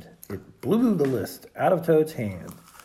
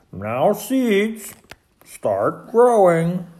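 raised, drawn-out command; 6 semitones higher, 7 dB louder, much slower than usual. A narrator's reading. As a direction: order the seeds firmly. Toad commanding his seeds to grow.

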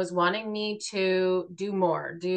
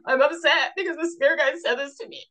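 lightly mocking self; 7 semitones higher, faster than usual. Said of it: "I couldn't say".

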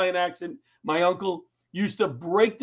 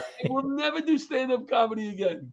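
high, upset outburst then fading; dejected vow; 6 semitones higher than usual. Retold or imitated. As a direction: swear off comedy in frustration. Vowing to quit after bombing.

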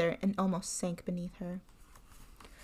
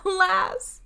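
high, loud wail of despair; sobbed; 10 semitones higher, 7 dB louder than usual. A narrator's reading. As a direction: wail it out in anguish. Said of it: "sobbed Fatima".

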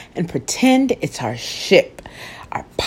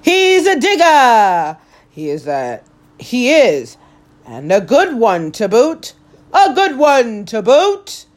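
excited pirate yelling to the crew; 5 semitones higher than usual. Acted. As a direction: call it back to the crew with glee. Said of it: "yelled back to his crew".

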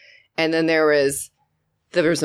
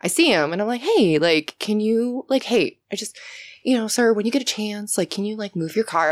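super polite; 2 semitones higher than usual. Retold or imitated. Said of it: "I was super polite".

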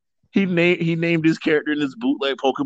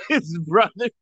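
lightly hammed-up villain voice, slightly higher; character voice; 3 semitones higher than usual. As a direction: ham up a silly accented villain. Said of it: "What voice is that?".

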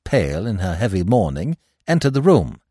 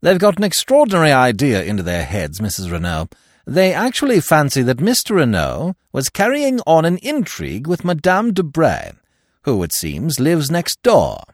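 put-on higher, bursting-in young secretary; impetuous; 6 semitones higher than usual. Secretary breaking in to warn the widow, impetuous and higher. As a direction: blurt it out eagerly. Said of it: "broke in impetuously".

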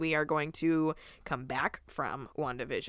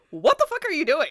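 high, loud disbelief at the screen; incredulous yell; 10 semitones higher, 8 dB louder than usual. Retold or imitated. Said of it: "I genuinely was like".

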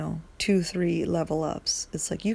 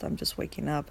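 yawning; 2 semitones lower, 4 dB quieter than usual. Real, not acted. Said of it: "I'm so sorry I yawned in your fucking ear".

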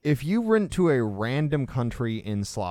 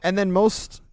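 laughing; 8 semitones higher, 5 dB louder than usual. Real, not acted. Laughing at own accent slip.

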